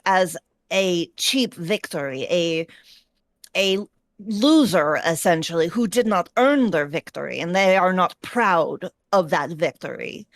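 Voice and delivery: put-on lightly Russian-accented orc warrior. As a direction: coach in a hint of Russian accent. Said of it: "I'm giving a Russian accent because that's all my brain is defaulting to".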